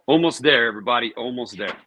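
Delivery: rally everybody, almost done; excited. Real, not acted. Cheering on viewers, nearly done.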